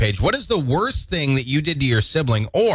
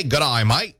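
mock Aussie; 2 semitones higher than usual. Shown as a demonstration. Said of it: "Can you say".

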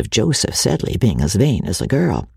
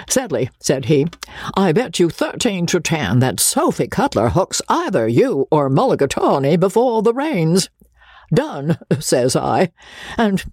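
higher, rambling braggart; boastful Joseph; 4 semitones higher than usual. Acted. Joseph bragging to his sleepy father, higher and rambling. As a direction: ramble on, pleased with your own tale.

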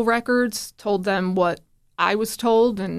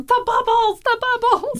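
put-on much higher, eager toddler voice; excited little boy; 3 dB louder than usual. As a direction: squeal it like a small child reaching for his toy. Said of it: "he's going".

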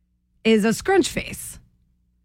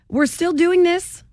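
exasperated; 5 semitones higher than usual. Real, not acted. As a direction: groan it out in disbelief. Exasperated at ketchup news.

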